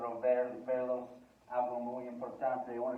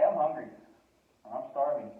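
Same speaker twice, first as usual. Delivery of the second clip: emphatic English example; 2 semitones higher, 8 dB louder than usual. Shown as a demonstration. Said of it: "In English, you say".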